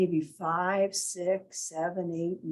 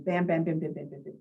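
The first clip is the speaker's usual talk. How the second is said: rapid-fire bam sounds; 3 semitones lower, faster than usual. Shown as a demonstration. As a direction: rattle off the bams like hits landing. Imitating stimuli hitting the brain rapidly.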